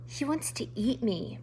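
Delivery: soft frightened mouse voice; faintly. A narrator's reading. Poppy answering the porcupine, faint and soft. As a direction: say it faintly, afraid. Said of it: "Poppy said faintly".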